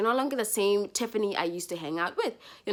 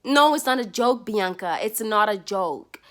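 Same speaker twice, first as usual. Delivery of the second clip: firm retort; 4 dB louder than usual. Pretend. Firmly replying to the friend.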